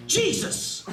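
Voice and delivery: sharp high yelp of "Jesus!"; pained yelp. Retold or imitated. Boy shocked by wet microphone yelps high. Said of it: "was all he got out".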